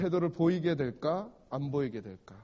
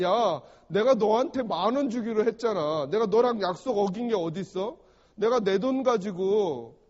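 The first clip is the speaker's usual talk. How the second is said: 몰아세우는 주인; 2 semitones higher, 4 dB louder than usual. Acted. 주인이 대드는 일꾼을 몰아세움.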